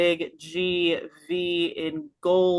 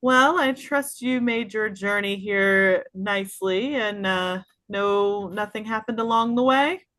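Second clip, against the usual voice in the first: NPC host greeting; 4 semitones higher than usual. Acted. GM voicing NPC greeting party.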